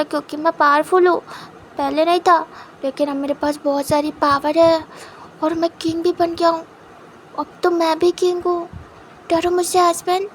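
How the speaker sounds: a mock-grand little king showing off; playful boast.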